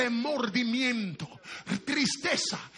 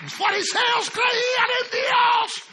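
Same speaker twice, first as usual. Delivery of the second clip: loud, high, slowed hellfire preaching; preaching at full force; 7 semitones higher, 5 dB louder than usual. Acted. Preacher thundering at the congregation about repentance. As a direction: thunder it from the pulpit.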